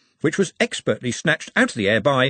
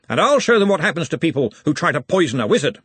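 higher, forceful threat; Ridcully; 6 semitones higher, 4 dB louder than usual. A narrator's reading. Ridcully vows revenge before next encounter, forceful and higher. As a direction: declare it with menace, pitched up.

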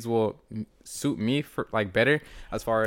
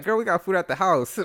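higher, emphatic mock scolding; retold scolding refusal; 8 semitones higher, 4 dB louder than usual. Uncle turning down niece's McDonald's plea, mock scolding. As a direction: act out shutting down a kid's request. Retelling own answer to niece's request.

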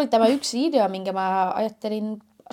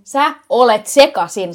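emphatic reply; 7 dB louder than usual. Real, not acted. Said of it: "Mä olen sekasin".

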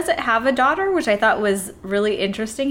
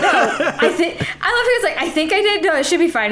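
laughing quote; 5 semitones higher, faster than usual. Retold or imitated. Acting out Cage unsure he poisoned himself.

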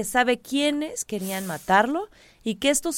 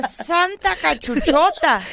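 mock exclamation; 3 semitones higher, slower than usual. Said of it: "Y yo también dije".

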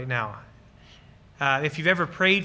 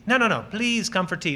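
no, no, you must come; insistent host; 4 semitones higher than usual. Pretend. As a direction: press the guest to come in.

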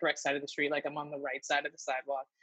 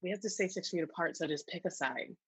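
softer, measured telling-off; calm lecture; 6 dB quieter than usual. Retold or imitated. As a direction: patiently tell them to pick a side, softly. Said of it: "I'm like".

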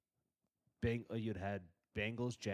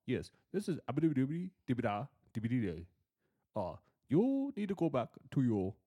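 put-on Middle Eastern accent; 3 dB louder than usual. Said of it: "Why does your Middle, Middle Eastern accent".

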